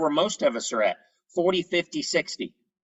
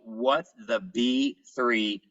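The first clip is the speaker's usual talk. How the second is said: drawn-out catchphrase; 2 semitones lower, slower than usual. Shown as a demonstration. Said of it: "Now I call it".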